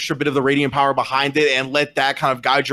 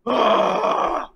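higher, shouted cry of pain; pained orc shout; 8 semitones higher, much slower than usual. Acted. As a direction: yell as the slap lands hard. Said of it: "and then he just".

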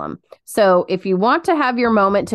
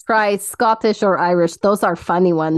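playful fake Russian accent; put-on Russian accent. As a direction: offer advice in a mock Russian accent. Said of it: "Stick to Russian".

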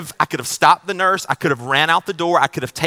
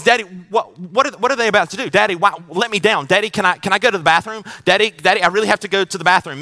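put-on pleading little boy, higher and louder; son begging; 4 semitones higher, 5 dB louder than usual. Pastor voicing his small son begging at the doctor's, panicky and pleading. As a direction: panicky toddler begging his dad to let him down.

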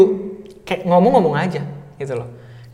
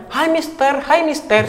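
high teasing sing-song hello; mimicking students calling out in mock greeting; 11 semitones higher, slower than usual. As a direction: tease him with a bright, high call. Students teasing him in passing.

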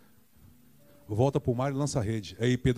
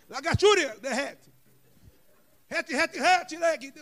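mock Hebrew gibberish; 4 dB louder, slower than usual.

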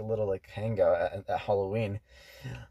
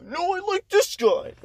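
higher and louder, swooning over him; excited; 5 dB louder than usual. Retold or imitated. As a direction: gush about the guy with a teasing lift. Retelling a friend's crush.

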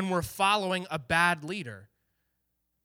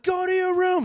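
higher, louder bossy command; bossy order; 13 semitones higher, 5 dB louder than usual. Retold or imitated. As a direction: bark it like a kid boss. Ordering brother to his room.

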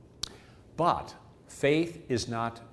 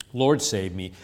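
louder, urgent plea to be saved; loud cry for help; 6 dB louder than usual. Acted. Peter sinking in the waves, crying out loudly. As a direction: cry "Lord, save me" out loud.

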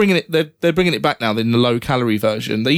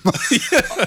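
seagull cry; 10 semitones higher than usual. Pretend. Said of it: "That was good, though".

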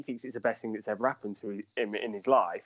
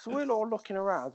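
laughing through the story, pitch well up; real giggling as he tells it; 9 semitones higher than usual. Real, not acted. To the hosts about the pool throw, laughing.

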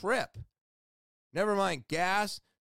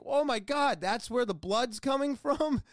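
retold astonishment; 6 semitones higher than usual. Patient retelling the doctor's video, higher and amazed. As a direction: replay the moment you spotted the blood, amazed.

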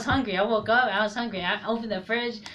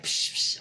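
whispered spurting noise; spurting sound. Retold or imitated. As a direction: hiss out a blood spurt. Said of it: "blood was just like".

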